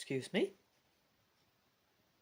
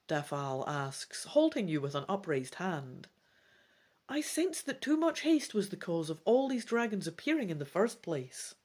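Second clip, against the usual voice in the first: lively read-aloud storytelling voice; story narration; 3 dB louder than usual. A narrator's reading. Reader voicing the dragon adventure aloud, animated narration. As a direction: read the gamebook with energy.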